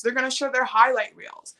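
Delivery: ordinary talk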